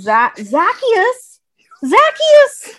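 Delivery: high ringing call of the name. Pretend. Shouting the name.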